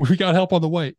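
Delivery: high, loud mock shout; imitated screaming operator. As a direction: shout it like an operator over chaos. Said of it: "nine one one screaming".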